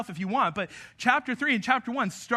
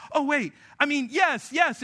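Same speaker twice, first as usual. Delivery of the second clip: eager shouted "yes, yes"; a preacher mimicking a toddler, calling out "yes, yes"; toddler's sudden yes; 4 semitones higher than usual. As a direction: blurt it out like a kid who changed their mind. Toddler suddenly changing answer.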